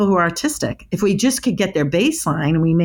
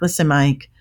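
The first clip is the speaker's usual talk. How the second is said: calm questioning. Retold or imitated. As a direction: calmly invite him to talk. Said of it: "really calm".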